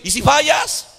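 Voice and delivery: a hint of a tempting, doubting spirit; fearful doubting voice. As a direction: voice the fear that nags you, lightly. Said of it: "Te empieza a decir".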